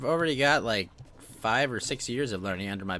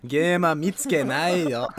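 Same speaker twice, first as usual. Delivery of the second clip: laughing; 4 semitones higher, 5 dB louder than usual. Acted. Joke line through laughter.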